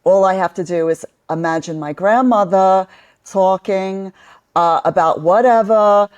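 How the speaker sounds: put-on a lightly done Brooklyn accent, channeling her grandmother. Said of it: "you would have me fooled for sure".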